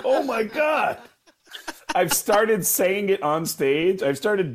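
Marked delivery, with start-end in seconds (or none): 0.0-1.0 high laughing oh my God; laughing disbelief. Real, not acted. Retelling a singer's burn, laughing high.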